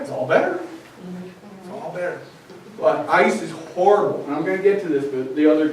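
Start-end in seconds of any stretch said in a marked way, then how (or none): 0.0-0.6 "better" lifted high in a sing-song mom tone; mock mom soothing. Mom soothing after Band-Aid. 1.6-2.2 very soft, "better" falling away; hushed echo. Retold or imitated. Echo of mom line.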